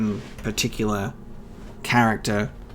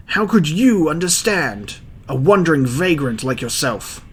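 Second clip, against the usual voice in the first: higher, louder, scornful snap; defensive mayor; 6 semitones higher, 6 dB louder than usual. Acted. Mayor snaps at the wanderer, higher and louder. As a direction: spit contempt at the vagrant.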